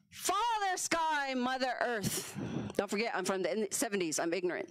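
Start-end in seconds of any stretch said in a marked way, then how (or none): 0.1-2.4 mock solemn invocation. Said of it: "my bad".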